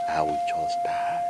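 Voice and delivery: slow, low and soft; low despairing threat. Acted. Elder warning family about the land, low despair. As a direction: let it sink down hopelessly.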